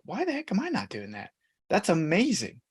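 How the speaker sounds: mild mock astonishment, pitch leaping up; amazed realization. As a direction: replay a moment of happy disbelief. Retelling his own amazed reaction.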